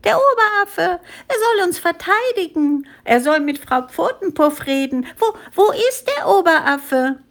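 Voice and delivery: very high, panicky squeals; acted panic, squeaky and high; frightened monkey cries. A narrator's reading. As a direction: call out anxiously as scared little monkeys. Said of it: "schrien die Affen ängstlich".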